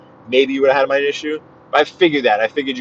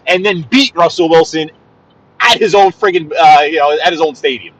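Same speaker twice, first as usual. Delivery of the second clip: excited ranting. Real, not acted. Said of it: "Why am I yelling?".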